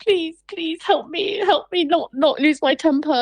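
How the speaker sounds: mock begging for patience; exasperated prayer. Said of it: "You're like".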